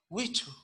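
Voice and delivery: "wichu" with air after the CH; aspirated CH. Shown as a demonstration. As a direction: breathe through the CH of "wichu". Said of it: "es wichu".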